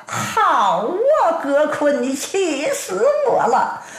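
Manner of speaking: hammed-up rage at being tricked; furious. Ruan Ying finds the sword is fake and rages at Ge Kun. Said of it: "阮英气得暴跳如雷".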